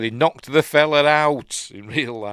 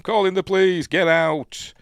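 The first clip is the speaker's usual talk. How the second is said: loud, high threatening shout; acted angry order; 10 semitones higher, 6 dB louder than usual. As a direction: throw them out with a raised voice. Acting out an order to leave.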